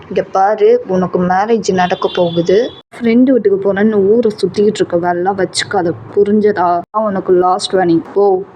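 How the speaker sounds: a hint of a strict dad laying down the law; strict father. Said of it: "ரொம்ப ஸ்ட்ரிக்டா சொல்லிடுறாங்க". (கண்டிப்பான அப்பாவின் தாழ்ந்த குரல்)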